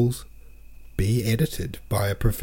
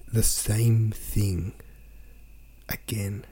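slow mocking drawl; 4 dB quieter, much slower than usual. Real, not acted. Mocking the repetitive sentence.

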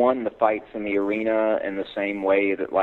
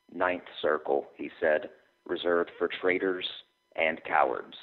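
dramatic reading. Acted. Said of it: "put a little dramatic flair into it".

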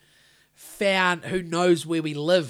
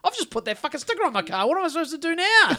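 frustrated yell at the car; exasperated outburst; 10 semitones higher, 4 dB louder than usual. Retold or imitated. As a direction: blurt it out in disbelief. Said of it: "I'm like".

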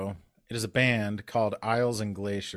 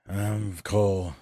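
true voice; much slower than usual. Shown as a demonstration. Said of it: "talk in our true voices".

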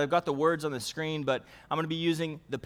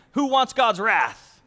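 loud, slow rhetorical question; emphatic question; 4 semitones higher, 7 dB louder, slower than usual. Acted. Pastor challenging the congregation, loud and slow. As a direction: challenge the room.

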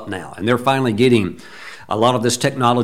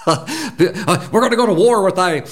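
laughing; 7 semitones higher than usual. Retold or imitated. Laughing at the church rumours.

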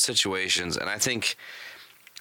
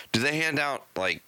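sarcastic; 7 semitones higher than usual. Real, not acted. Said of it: "I'm gonna ask a sarcastic question".

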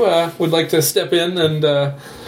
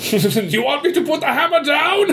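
high, playful taunt; mock the heroes from above; taunting god; 12 semitones higher than usual.

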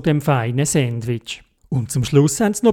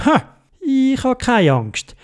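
bold; 9 semitones higher, slower than usual. Acted. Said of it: "der Theobald hat gesagt".

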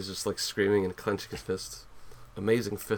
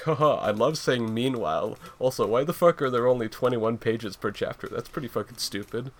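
louder teasing narrator voice; mocking narrator; 2 semitones higher, 4 dB louder than usual. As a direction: taunt the audience as narrator. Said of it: "the narrator coming in and being like".

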